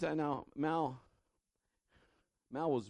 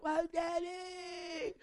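high, slow crying wail; worn-out child crying; 4 dB quieter, much slower than usual. Retold or imitated. Tired daughter crying for daddy from bed, high slow wail. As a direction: wail like a worn-out little girl. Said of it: "her voice is all getting wore out".

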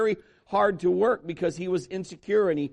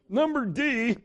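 Number D said higher through a laugh; 6 semitones higher, slower than usual. Real, not acted. Preacher laughing at his own list slip, Number D laughed.

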